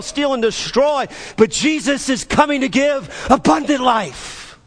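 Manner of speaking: emphatic, driving preacher's delivery; impassioned preaching. Real, not acted. Preacher declaring Jesus over every distress, impassioned. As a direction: preach each trouble out as a rising charge.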